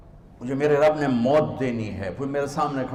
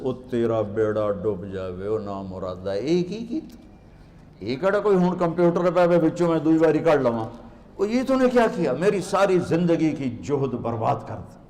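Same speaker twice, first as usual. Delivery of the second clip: mock dismay. Scholar cursing over ruined books.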